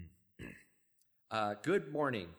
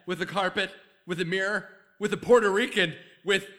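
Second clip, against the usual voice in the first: desperate Jerry; 4 dB louder than usual. Acted. Monologue building in intensity.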